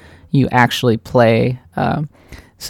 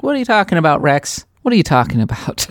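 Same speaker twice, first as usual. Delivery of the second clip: indignant disbelief; 3 semitones higher than usual. Retold or imitated. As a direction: protest in mock outrage. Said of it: "And I'm like".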